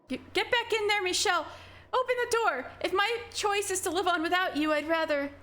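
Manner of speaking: high, frantic voice yelling through a door; girl high and frightened, calling her friend back; Giselle, panicked. Acted. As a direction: pound on the door, desperate to get her back.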